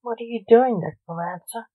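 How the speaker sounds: annoyed demand. Acted. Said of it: "demanded his father, more than annoyed".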